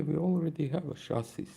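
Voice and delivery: ordinary talk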